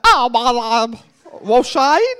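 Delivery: a hint of her Irish mother's fond accent; Irish mum impression. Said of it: "She goes like".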